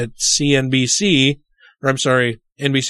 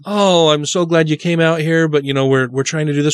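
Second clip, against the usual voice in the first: kind, gentle polite request; kindly. Retold or imitated. Speaker kindly asking a mother to step into the hall, gently. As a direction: ask nicely, like a host easing a guest out. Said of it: "you can say it kindly".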